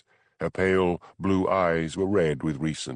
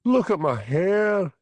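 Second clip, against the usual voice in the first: high, slow wail; a drawn-out distressed wail, louder; 12 semitones higher, 4 dB louder, slower than usual. Acted. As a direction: wail it out in despair. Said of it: "she wailed".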